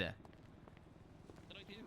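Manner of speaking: slow, whispered innocent protest. Real, not acted. Friend whispering after scaring the dog, quiet. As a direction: whisper it slowly, caught out.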